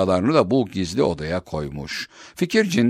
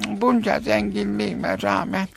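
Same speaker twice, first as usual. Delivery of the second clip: regretful lament; 11 semitones higher than usual. Acted. Old woman laments trapped.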